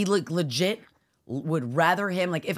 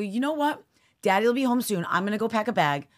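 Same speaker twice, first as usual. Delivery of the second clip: retold snap; 4 semitones higher, faster than usual. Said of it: "I saw red. I snapped".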